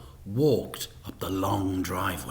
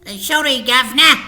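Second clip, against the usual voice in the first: much higher, louder flustered apology; nervous crook; 14 semitones higher, 12 dB louder, faster than usual. A narrator's reading. Fingers to Mister Big, flustered apology. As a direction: grovel to the boss.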